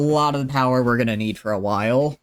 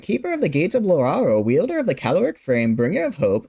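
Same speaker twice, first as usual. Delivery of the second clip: grand, rushed title recital, higher and louder; all in one breath; 6 semitones higher, 3 dB louder than usual. Pretend. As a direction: rattle off the royal titles without a breath. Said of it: "do it all in one breath".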